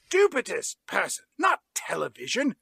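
loud, high Brian voice insisting on the Baywatch; Brian shouting. Retold or imitated. Brian loudly begging Ben Affleck to go, shouting. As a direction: yell it out like a stubborn Brian. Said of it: "impression of Justin Bartha as Brian".

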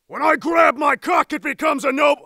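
projected voice-acting delivery; declaimed line. Actor retaking the heroic line, declaimed. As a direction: proclaim it boldly. Second recorded take.

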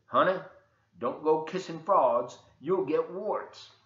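mama's voice. Acted. Mama warning her son off kissing frauds, lightly voiced. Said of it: "His mama said".

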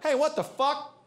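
high, sharp indignant yelp; mild retold outrage; mock outrage. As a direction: yelp as your beer vanishes. Guy protests beer taken.

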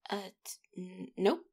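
stumbling, caught-out nope; flustered stammer. Acted. Caught out by the love letter, stammering her denial. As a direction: trip over the denial as if caught.

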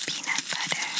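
breathy whisper right into the ear. Shown as a demonstration. Examiner testing the patient's hearing, whispered into the ear. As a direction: whisper the words close into one ear. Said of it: "as I whisper in this one".

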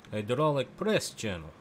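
put-on Russian accent. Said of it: "I'm working on my Russian accent".

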